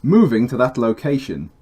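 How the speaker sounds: slight Brummie accent on Moving to that location; still Brummie. Real, not acted. Retake of the game voice line, still lightly Brummie. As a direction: Brummie vowels lingering. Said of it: "Still sounded brummy".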